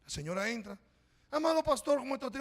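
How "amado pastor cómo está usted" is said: lightly voiced lady, high and gushing; sweet church lady. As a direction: greet the pastor high and sugary. Lady greeting the pastor sweetly. (señora dulce, voz alta y empalagosa)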